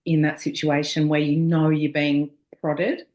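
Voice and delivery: talking with a retainer in; speech through a mouth retainer; wearing a retainer. Real, not acted. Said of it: "I've got my retainers in everybody".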